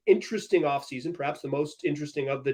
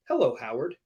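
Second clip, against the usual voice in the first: calm greeting; 5 semitones lower, 4 dB quieter than usual. Retold or imitated. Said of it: "looks at you very calmly and says".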